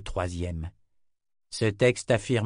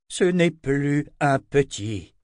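grumbling; 5 semitones higher, 4 dB louder, slower than usual. A narrator's reading. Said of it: "grogna Anna".

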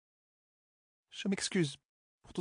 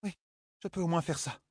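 sighing; 5 dB quieter than usual. Acted. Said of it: "soupira la fille héritière".

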